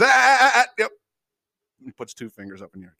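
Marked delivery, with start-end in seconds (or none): 0.0-0.9 high, loud mock approving grunts; manager sizing up the lot. Manager eyeing the drive-through zoning, hammed-up high approval. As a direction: ham up the boss clocking the zoning. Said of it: "the guy goes".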